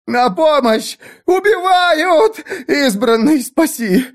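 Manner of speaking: very high, slow desperate cry; screaming for help. A narrator's reading. Dying servants begging the chosen one, desperate scream. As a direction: wail for rescue.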